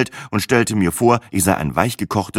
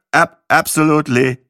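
stammering reply; 6 semitones higher, 4 dB louder than usual. A narrator's reading. Freezing narrator answers the worried driver.

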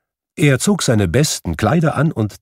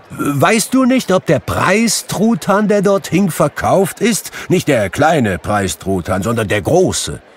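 high, loud eager question; loud, high-pitched and thrilled; excited Scrooge, calling; 9 semitones higher, 5 dB louder than usual. A narrator's reading. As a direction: call down eagerly to someone in the street. Scrooge calls down to boy.

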